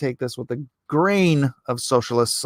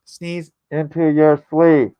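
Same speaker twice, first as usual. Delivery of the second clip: slow instruction; 5 dB louder, slower than usual. Shown as a demonstration. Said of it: "instructing slowly".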